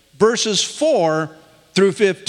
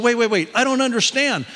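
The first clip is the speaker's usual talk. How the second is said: higher-pitched mock bewilderment; mild retold excitement; 6 semitones higher, faster than usual. Retelling an excited woman hearing news by phone, mildly excited. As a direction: imitate an excited caller, voice lifted. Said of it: "she was so excited".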